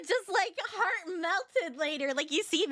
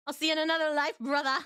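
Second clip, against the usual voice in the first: imitated accent, unhurried second go; Desmond; 2 semitones higher, faster than usual. Fan practicing a favorite character's line, imitated accent. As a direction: mimic the clip's accent lightly.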